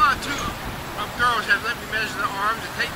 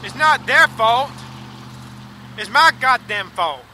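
slow bitter anger; 5 dB louder, slower than usual. Real, not acted. Bitter rant at himself on camera.

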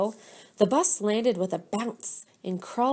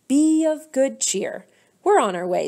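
cheery rally; 4 semitones higher, 5 dB louder than usual. A narrator's reading. Cheerful teacher rallying the class.

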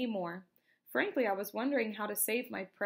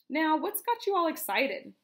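lively questioning; 7 semitones higher, 6 dB louder than usual. A narrator's reading. Boy calls to alert raccoon.

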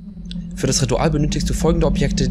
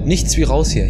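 scared whisper; 2 semitones higher, 4 dB louder than usual. Real, not acted. Fleeing scary basement.

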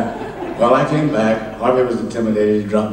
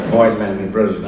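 savoring the name. Real, not acted. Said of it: "what a great name to throw around".

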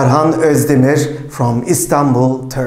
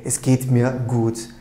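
calm melody; 4 semitones lower than usual. Shown as a demonstration. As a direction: settle it down, calm and content. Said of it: "with a calm melody".

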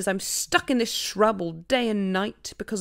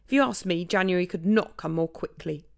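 higher, louder outraged partridge; indignant; 3 semitones higher, 6 dB louder than usual. Acted. Partridge to the animals about pears, indignant and loud. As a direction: vent the unfairness. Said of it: "added indignantly".

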